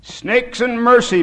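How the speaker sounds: high, loud, slow exclamation; exclaimed oath. A narrator's reading. Bisou reacts to the kneeling old man, loud exclamation.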